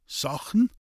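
high, puzzled rising echo; startled echo. Acted. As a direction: catch the word in alarm. Woodcutter taken aback.

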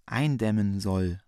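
weak, sickly voice, slowed; faint consumptive rasp. Acted. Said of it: "mit schwindsüchtiger Stimme".

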